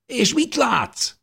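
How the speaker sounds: high, slow, stretched call; eager question. A narrator's reading. Dávid shouting up to the one outside, eager. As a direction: draw it out, dying to know.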